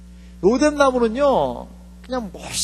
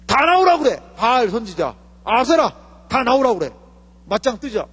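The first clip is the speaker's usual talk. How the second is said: defiant challenge; 2 semitones higher than usual. Retold or imitated. Elijah voiced challenging prophets.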